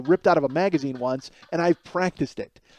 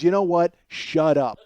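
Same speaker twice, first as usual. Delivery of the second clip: fed up snap; 4 dB louder, slower than usual. Retold or imitated. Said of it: "throws up her hands and just goes".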